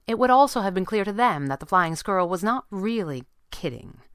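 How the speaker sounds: plain reading voice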